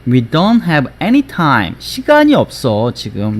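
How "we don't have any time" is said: "don't" without a released t before "have"; slow "We don't have any time", "don't" ending on n; natural sentence form. Shown as a demonstration. Teacher models the whole sentence, "don't" with t dropped. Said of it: "실제로는 문장 안에서는".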